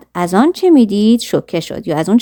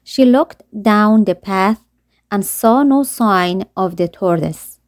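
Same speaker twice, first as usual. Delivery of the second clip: put-on slow, careful read-aloud of a children's story; slow storybook narration; much slower than usual. A narrator's reading. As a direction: read each word slowly for learners.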